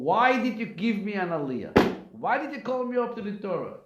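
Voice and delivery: high-pitched indignant complaint, imitated; mock yell of an upset congregant; retold screaming. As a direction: act out an old man's outraged protest. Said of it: "He's screaming".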